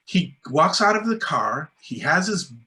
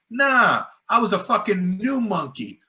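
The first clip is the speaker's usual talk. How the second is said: laughing retort; 7 semitones higher than usual. Retold or imitated. Retold proud retort, laughing.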